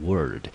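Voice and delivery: word said alone, like the word word; syllable demo. Shown as a demonstration. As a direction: sound out the second syllable word. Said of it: "我们念成word". (单独示范音节word)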